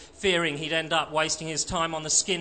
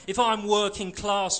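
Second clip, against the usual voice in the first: higher, spitting anger, leaning on I'm; spat; 5 semitones higher, 4 dB louder than usual. Acted. Skinhead throwing the Marxist's words back, angry. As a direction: spit the words back at him. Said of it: "Johnny spat".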